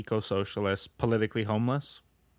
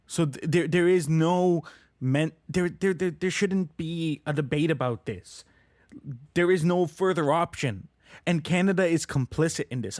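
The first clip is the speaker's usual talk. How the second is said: insistent, a little higher in pitch; worked up; 4 semitones higher than usual. Real, not acted. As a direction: press the point, getting heated. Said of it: "I got really worked up there".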